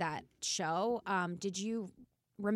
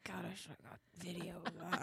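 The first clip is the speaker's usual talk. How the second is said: millennial voice; 9 dB quieter than usual. Retold or imitated. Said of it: "Millennial entrepreneur voice".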